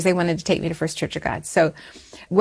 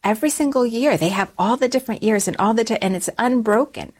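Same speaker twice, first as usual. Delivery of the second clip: higher-pitched, mock eager pleading; retold youthful eagerness, pitched up; eager persuasion; 4 semitones higher than usual. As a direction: make the childhood case with rising enthusiasm. Retelling her eager childhood argument to parents.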